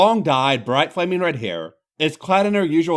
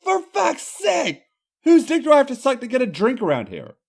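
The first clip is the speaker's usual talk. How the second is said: frustrated Irish woman; 10 semitones higher than usual. Acted. Becky frustrated, thrown arms up.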